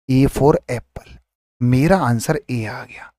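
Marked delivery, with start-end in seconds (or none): 0.1-1.2 A for Apple said slowly, each word apart; teacher drawing out A for Apple for the class; slow, spelled out. Shown as a demonstration. Slow teaching read.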